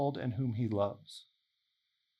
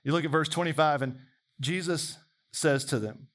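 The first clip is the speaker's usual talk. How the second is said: usual speaking voice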